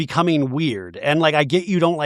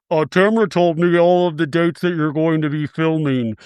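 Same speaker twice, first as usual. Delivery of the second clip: put-on distorted, muffled voice. Retelling a blogger's voice from a show's final episode: imitating a distorted, muffled voice. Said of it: "the voice is that kind of distorted, muffled".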